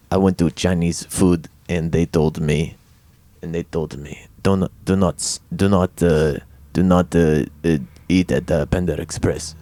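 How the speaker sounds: low, halting Russian accent; Russian accent attempt. Shown as a demonstration. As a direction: stumble through a Russian accent. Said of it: "most recently Russian".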